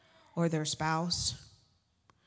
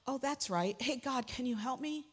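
mock sudden remembering; 4 semitones higher, 4 dB quieter than usual. Mimics suddenly remembering God.

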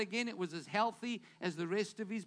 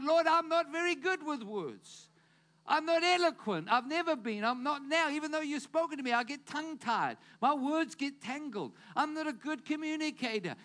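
pleading Moses; 5 semitones higher than usual. Acted.

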